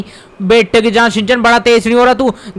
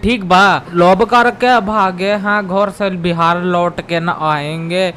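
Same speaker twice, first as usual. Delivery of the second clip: put-on Bihari accent; 3 semitones lower, much slower than usual. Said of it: "I like Bihari accent".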